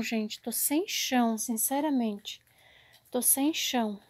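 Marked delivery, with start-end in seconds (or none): 3.1-4.0 devastated whisper. Real, not acted. Looking at the fallen shelves, whispering "Tô sem chão". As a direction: breathe "Tô sem chão" out, crushed. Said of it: "tô até sem chão".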